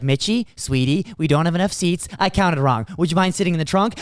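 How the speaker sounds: sweet-talking grape. Acted. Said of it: "one of the grapes is like".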